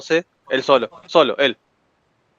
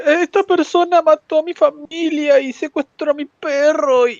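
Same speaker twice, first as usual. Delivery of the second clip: plaintiff in court; 8 semitones higher, slower than usual. Retold or imitated. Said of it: "ir a un juicio y decir".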